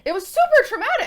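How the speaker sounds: loud, high-pitched protest; real heated emphasis; emphatic insistence. Real, not acted. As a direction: insist over the other person, voice shooting up. Insisting over co-host on trauma.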